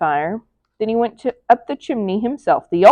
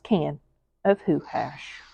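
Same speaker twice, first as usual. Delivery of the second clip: hushed whisper on the punchline; 7 semitones lower, 10 dB quieter than usual. A narrator's reading. Narrator whispering the stolen hash, hushed. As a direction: breathe the words almost silently.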